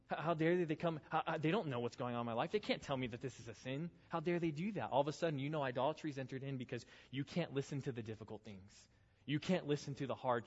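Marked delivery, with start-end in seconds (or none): 0.1-4.9 mildly hammed-up teenage outrage; indignant protest. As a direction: stammer into an offended "how dare they". Acting out an indignant teenager's complaint.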